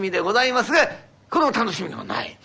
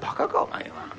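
higher, breathy exasperated snap; exasperated retort; 13 semitones higher than usual. Acted. Husband scoffing at his wife's guess of incense, higher and breathy. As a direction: scoff at her obtuseness.

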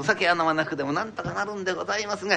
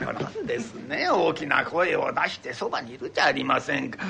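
ordinary delivery

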